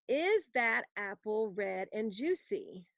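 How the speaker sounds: slow, clear dictation of a question; dictation pace. Shown as a demonstration. Teacher dictating a question for students to write down. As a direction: read it out slowly to be copied. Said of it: "Write down this question".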